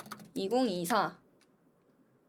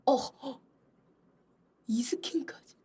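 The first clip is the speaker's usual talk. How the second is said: normal talking voice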